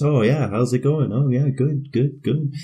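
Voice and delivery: mildly voiced chirpy cashier; a hint of an overly polite clerk; friendly cashier. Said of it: "guy behind the till".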